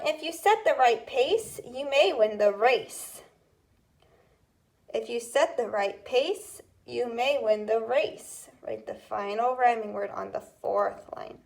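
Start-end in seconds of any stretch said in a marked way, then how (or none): 0.1-3.2 dictation read. Shown as a demonstration. Teacher reading a dictation rhyme to students, clear. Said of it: "And the last one". 4.9-8.4 dictation read. Shown as a demonstration. Teacher reading a dictation rhyme to students, clear. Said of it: "And the last one".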